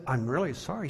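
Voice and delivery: softly retold apology; meek apology. Preacher retelling his apology to a ranting customer, meek. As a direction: apologize softly under someone's tirade.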